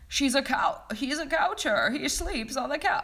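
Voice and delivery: high-pitched, loud, hammed-up Seinfeld impression. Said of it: "I can't do a Seinfeld impression".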